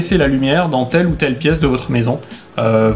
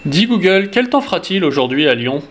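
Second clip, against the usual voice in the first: talking to voice assistant; 3 semitones higher than usual. Real, not acted. Speaks command to smart speaker.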